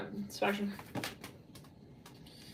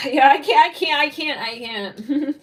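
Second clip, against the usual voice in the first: exasperated laughing; 4 semitones higher, 6 dB louder, slower than usual. Real, not acted. Overwhelmed by the reading.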